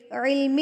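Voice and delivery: علمہ with the final "hee" held long; drawn-out ending. Shown as a demonstration. Showing students small madd, علمہ with held ending. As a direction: stretch the end of علمہ for three beats. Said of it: "تین حرکات کے برابر کھینچ کے پڑھیں گے".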